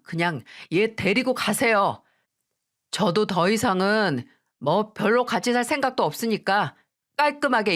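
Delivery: annoyed, curt; husband coldly brushing them off; husband telling mother-in-law to take his wife away, annoyed; irritated dismissal. Acted. Husband declares divorce.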